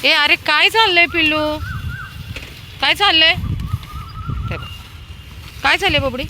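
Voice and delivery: very high, loud cooing; high cooing pet talk. Real, not acted. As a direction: coo at the pups like babies. Baby talk to puppies.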